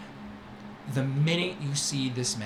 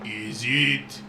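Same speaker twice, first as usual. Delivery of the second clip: louder, grand, drawn-out delight; showy merchant greeting; 5 dB louder, slower than usual. Acted. Merchant Syrah greeting his favorite Kitsu with grand delight. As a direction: greet her like a long-lost favorite.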